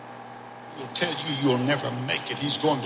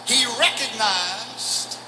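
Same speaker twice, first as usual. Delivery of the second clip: fervent preaching; 7 semitones higher than usual. Real, not acted.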